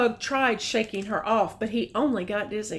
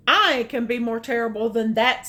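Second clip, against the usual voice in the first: louder bragging monster; Smug boasting; 5 dB louder, faster than usual. Acted. Reading aloud, Smug boasts back, loud. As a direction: boast it out big. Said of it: "said Smug".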